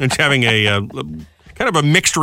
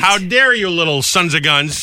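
mock outraged grandma; 4 semitones higher, slower than usual.

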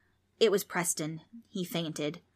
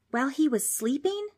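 high, indignant snap; snapped; 8 semitones higher than usual. A narrator's reading. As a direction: snap back in a higher voice. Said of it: "Trix snapped".

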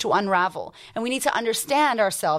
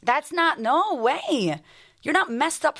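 incredulous reaction; 3 semitones higher, slower than usual. Retold or imitated. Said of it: "And I'm like".

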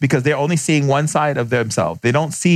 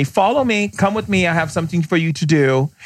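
spirit calling; 5 semitones higher than usual. Retold or imitated. Spirit calling the little boy.

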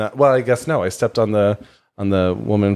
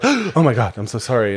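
startled, higher gasping "Oh my God" then a quick sorry; mortified apology; 3 semitones higher than usual. Retold or imitated. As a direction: blurt it out in mock panic after hitting someone.

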